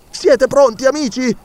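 high, urgent call to his friends; rally the crew for action. Acted. Doctor rallies companions. (Ferguson chiama gli amici all'azione, concitato)

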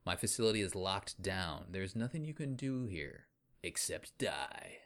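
a hint of a gloating alien villain; lightly sneering bad-guy voice; sneering panto villain. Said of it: "He says".

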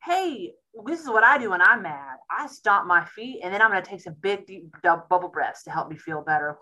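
lightly voiced coaching parent; walk the kid through calming down; coaching a child. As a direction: parent modelling stomping and bubble breaths. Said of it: "I'm like".

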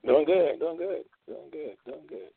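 fading echo repeats; echo effect. Pretend. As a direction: let each repeat fade like an echo.

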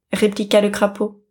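plain reading voice

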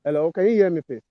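muffled, mic half covered; talking through a covered mic; finger over the mic. Real, not acted. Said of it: "Maybe you're covering your mic".

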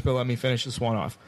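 usual speaking voice

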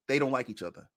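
hushed gossip, as if someone could overhear; a whispered aside to a co-host; conspiratorial whisper. Acted. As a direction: whisper it like a juicy secret. Gossiping about rival teams.

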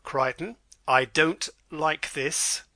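slow, a mild warning to the butler. Acted. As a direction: let the worry show, slowly.

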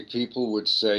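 ordinary talk

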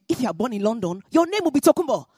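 imitating the taunting girl. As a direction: taunt her as the bigger girl would. Bully girl mocks her name.

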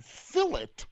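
high-pitched mock wrestler demand; lightly voiced wrestler ordering food; A-Train. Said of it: "I'm imagining A-Train at a fucking".

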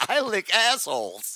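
"lick" with a short i, pitched high; imitated mishearing. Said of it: "it sounds like I'm saying".

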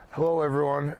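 losing voice, hoarse and worn. Real, not acted. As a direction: talk through a hoarse, tired throat. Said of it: "I'm losing my voice".

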